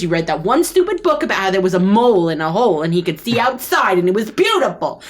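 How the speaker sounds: exasperated snake wife listing grievances; nagging wife. Acted. Snake wife scolds her husband, nagging and exasperated. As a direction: complain on and on, building. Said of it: "you occasionally hear her say".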